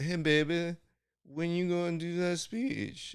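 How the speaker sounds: mock spaced-out, drawn-out, slow, high stoned drawl. Retelling what a coach always said: imitating a stoned coach. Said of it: "a coach who smoked so much weed, she would always go".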